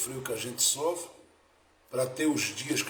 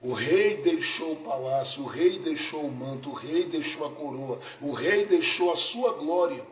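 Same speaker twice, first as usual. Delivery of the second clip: rhythmic preacher's repetition, louder on the last phrase; emphatic preaching; 2 semitones higher, 5 dB louder than usual. Real, not acted. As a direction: preach it as a list building to a strong finish. (pregação enfática)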